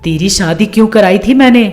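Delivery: lightly voiced nagging mother; a hint of motherly scolding; scheming mother, reproachful. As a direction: press the daughter with pointed questions. Voices the mother prodding daughter.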